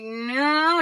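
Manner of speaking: drawn-out, friendly no; friendly denial. Retold or imitated. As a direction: let them down kindly. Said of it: "he's pretty friendly".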